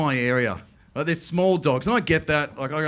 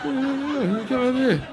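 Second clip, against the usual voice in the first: high, mock-welcoming pug; squeaky friendly little dog; lightly voiced pug inviting you in; pug's voice; 9 semitones higher than usual. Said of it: "That was like".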